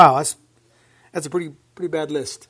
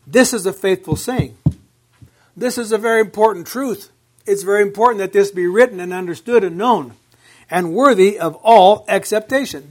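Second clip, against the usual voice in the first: loud, insistent paraphrase of Paul; Paul's emphatic declaration; emphatic proclamation; 2 semitones higher, 7 dB louder than usual. Retold or imitated. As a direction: drive home each phrase. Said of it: "made the statement very emphatic".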